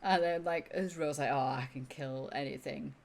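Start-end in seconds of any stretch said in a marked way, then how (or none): 1.3-3.0 casual boast. Acted. Acting the boastful warrior.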